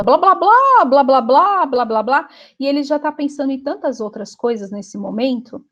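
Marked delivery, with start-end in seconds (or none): 0.0-2.3 blá blá in a high, loud mocking voice that trails off; mock chatter. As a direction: parody someone rambling on. Mocking someone's endless chatter. (imitando alguém tagarelando, em tom de deboche)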